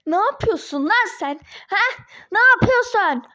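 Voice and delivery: high-pitched confrontational yell; angry yelling. Acted. Ex-wife confronts Ali at his office, yelling angrily. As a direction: demand an explanation, yelling. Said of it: "Ne bağırıyorsun be?".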